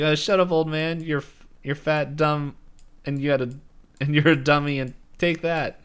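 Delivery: high-pitched imitation of a scolding; mock defiance. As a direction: hurl the insults in a play-acted tantrum. Acting Mabel doubling down on insults.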